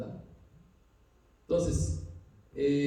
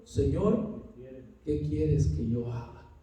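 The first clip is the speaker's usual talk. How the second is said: a touch of fear, softer and slower; Paul asks the Lord in awe, quietly; trembling and fearful; 3 semitones lower, 4 dB quieter, slower than usual. Retold or imitated. Preacher voices Paul to the Lord, trembling and fearful. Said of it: "temblando y temeroso".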